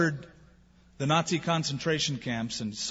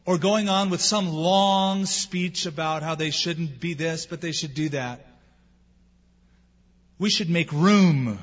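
normal talking voice

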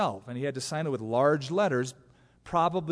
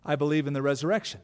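Paul declaring; faster than usual. Acted. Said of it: "He goes".

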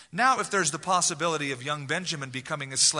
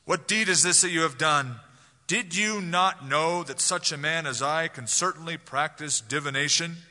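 louder, stern demand from a ruler; harsh voice; 4 dB louder than usual. Retold or imitated. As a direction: rebuke the brothers like an Egyptian lord. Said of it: "I think Joseph said it in a harsh voice".

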